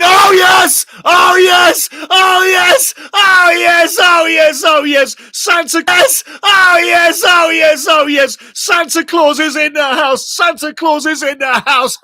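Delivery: ecstatic screaming goal call, very high and loud; goal celebration. Real, not acted. Fan commentator screaming at the goal. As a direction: scream it out like the goal just went in.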